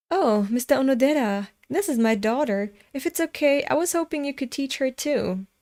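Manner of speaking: a light parody of the fawning dad; mocking the father. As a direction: mimic him sweetly, mockingly. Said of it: "being all".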